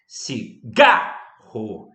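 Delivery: Cigarro broken into slow syllables, GA punched loud; stress on penultimate syllable. Shown as a demonstration. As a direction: split Cigarro and hit GA hard. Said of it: "sílaba tônica na penúltima sílaba". (Cigarro silabado, com força no GA)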